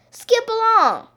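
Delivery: very high, loud, lilting call. A narrator's reading. Missus Duck urging Baby down the road, calling out. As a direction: sing it out to urge them on. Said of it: "called Missus Duck".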